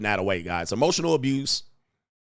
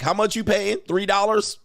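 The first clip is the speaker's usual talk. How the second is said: higher, eager mock voice for the hired actor; mock homeless guy; 7 semitones higher than usual. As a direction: play the cheap actor jumping at a gig. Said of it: "He like".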